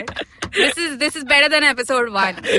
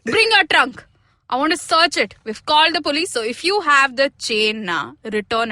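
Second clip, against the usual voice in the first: stern madam. Acted. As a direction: order the maid about. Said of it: "She's getting into it".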